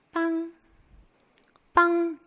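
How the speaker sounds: high, soft held honk; a small, high spoken car horn; car honk imitation. Teacher joking no car honks so, soft honk imitation. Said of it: "이런 차는 없어".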